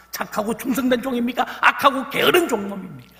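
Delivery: loud, high rhetorical challenge; challenging shout. Real, not acted. Pastor challenges the teachers, loud and pointed. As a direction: fling the question at them.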